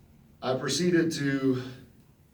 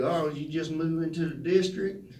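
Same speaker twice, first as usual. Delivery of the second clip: higher put-on coach voice; coach's voice; 5 semitones higher than usual. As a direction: coach surprised the big kid is local, in a raised put-on voice. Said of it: "he kinda talked like this".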